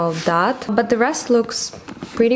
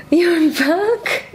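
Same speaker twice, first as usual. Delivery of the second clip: high squeal of delight with a laugh; excited squeal; 11 semitones higher than usual. Real, not acted. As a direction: squeal happily as the cat returns. Cat returns, squeal.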